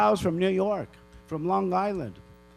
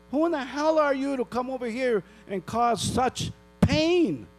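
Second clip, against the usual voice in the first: higher, indignant demand; outraged; 6 semitones higher than usual. Real, not acted. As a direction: accuse them of causing pain. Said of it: "I'm really pissed off".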